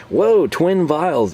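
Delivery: slow, high drawn-out whoa; a viewer gasping at twin vials; mock amazement. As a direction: act dazzled by the package. Imagined viewer's amazed reaction.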